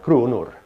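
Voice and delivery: "kronor" with the pitch falling away; falling intonation. Shown as a demonstration. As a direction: let "kronor" drop toward its end. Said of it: "or has a falling intonation".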